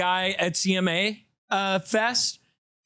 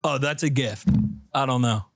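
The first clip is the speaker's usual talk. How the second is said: low, offhand shrug; clueless guy; 8 semitones lower than usual. Retold or imitated. Host voicing a clueless shirt wearer, low shrug. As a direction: mumble like it means nothing.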